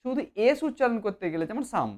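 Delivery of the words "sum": "সাম" with a plain s, as in English sum; flat S sound. Shown as a demonstration. Teacher contrasting s with sh, "সাম" said with flat s. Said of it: "flat উচ্চারণ হবে".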